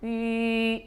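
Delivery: 위 with lips fixed round, no glide to 이; lips held rounded. Shown as a demonstration. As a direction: hold the rounded lips through 위. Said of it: "입술의 모양이 바뀌면 안 돼요". (입술 모양 고정한 위)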